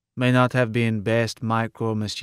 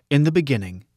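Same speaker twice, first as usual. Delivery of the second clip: lightly intoned, raised opening pitch; intoning; 3 semitones higher, faster than usual. A narrator's reading. Computer reciting Genesis to its friend, intoning. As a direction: recite it like scripture. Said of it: "Mike intoned".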